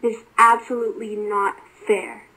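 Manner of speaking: lightly acted rant; contained, indignant complaint; Erebus. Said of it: "Erebus furiously ranted".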